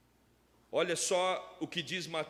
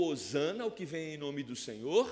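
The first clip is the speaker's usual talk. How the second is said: ordinary talk, nothing marked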